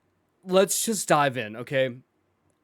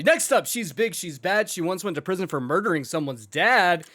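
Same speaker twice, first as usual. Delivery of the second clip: hype intro. Acted. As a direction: introduce her like a ring announcer. Host announces a returning guest.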